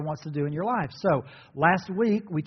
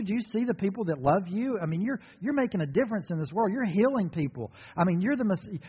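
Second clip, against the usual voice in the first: higher, eager, persuading tone, talking him out of it; Peter rebuking Jesus; 4 semitones higher than usual. Retold or imitated. Peter rebuking Jesus, higher and eager. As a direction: coax him like a pushy friend who knows better.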